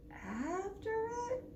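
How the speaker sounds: soft, high, slow whisper; whispered question. Acted. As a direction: whisper it nervously. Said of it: "we all whispered".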